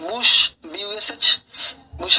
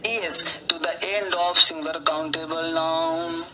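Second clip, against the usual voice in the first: slow dictation; much slower than usual. Shown as a demonstration. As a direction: rule read out very slowly. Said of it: "teacher dictating rule slowly". (धीमी गति से नियम लिखवाना)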